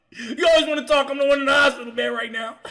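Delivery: high, loud, rushed mock tirade; Rodney yelling. Injured man to his female counterpart, imitated yelling. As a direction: imitate a patient hollering from his bed. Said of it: "Rodney's yelling at some female counterpart".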